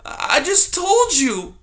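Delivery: high, slow pleading little mouse. Acted. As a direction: beg him to understand. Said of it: "Poppy pleaded".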